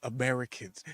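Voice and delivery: lightly voiced snooty local; mock snooty disgust. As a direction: look down your nose at them. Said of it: "turned their noses up at us".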